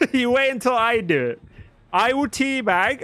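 high-pitched, amused insistence; laughing order. Real, not acted. Streamer telling a player to wait, laughing. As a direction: repeat the order through a laugh.

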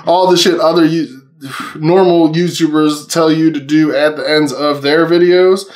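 measured second attempt after stumbling; slowed-down retake. Real, not acted. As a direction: say it deliberately, word by word. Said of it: "how do I say that so fast".

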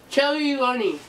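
mumbled through stuffed cheeks; cheeks stuffed full. Real, not acted. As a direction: mouth crammed with marshmallows. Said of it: "marshmallows in your mouth".

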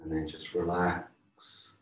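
calm, unhurried yoga teacher voice, softening at line ends; guided relaxation. Real, not acted. Yoga teacher guiding a class through breathing, calm guided relaxation. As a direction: ease them gently toward rest.

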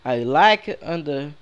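slow, rough copy of a game character; imitando o cara do jogo. Retold or imitated. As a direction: parrot overheard English slowly, as best you can. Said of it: "Vocês ouviram o que o cara falou?". (imitação arrastada do personagem)

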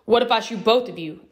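a hint of an armed stranger's anger; angrily. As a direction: threaten with restrained anger. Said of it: "the man asked them angrily".

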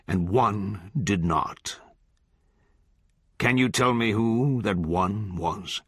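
lightly voiced judge, solemn and oratorical; sermonizing judge. Judge reproaching the kid who broke faith, solemn oratory. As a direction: pronounce judgment like scripture.

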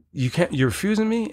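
retold disbelief, pitched high; incredulous. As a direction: replay your indignant question in a high voice. Acting out his disbelief at being refused.

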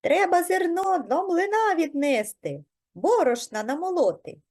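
high, squeaky mouse chatter; squeaking. A narrator's reading. Mice tell the rooster about the mill, squeaking. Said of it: "запищали".

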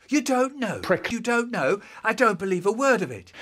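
high-pitched disbelieving retort; incredulous anger. Acted. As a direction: throw the answer back in disbelief. Angry disbelief at the answer.

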